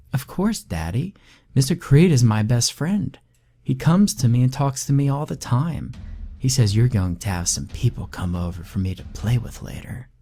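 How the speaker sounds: put-on high sweet child voice; little girl Rebecca. Creepy little daughter chatting to her father. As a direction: play the eerie little girl brightly.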